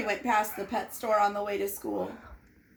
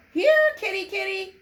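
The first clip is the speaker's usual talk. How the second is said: high sing-song calling; man luring kittens, calling out high; 8 semitones higher, 6 dB louder than usual. Acted. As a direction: call the kitties sweetly. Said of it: "he cried".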